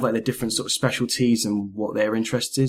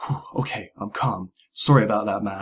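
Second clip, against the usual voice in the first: suddenly calm; 3 semitones lower than usual. Retold or imitated. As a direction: imitate someone instantly cooling off after anger. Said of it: "from being really angry at you to going".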